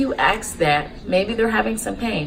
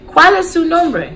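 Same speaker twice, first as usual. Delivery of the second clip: slow, higher, louder teaching voice; slow language demo; 10 semitones higher, 6 dB louder, slower than usual. Shown as a demonstration. Nurse teaching how to ask a patient's name, slow demo. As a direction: present the Spanish question slowly and clearly. Teacher models phrase for learners.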